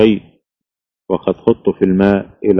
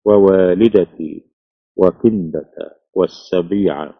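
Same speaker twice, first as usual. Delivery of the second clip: poetry recitation. A narrator's reading. Recites quoted verse. (إلقاء شعري متأنٍّ)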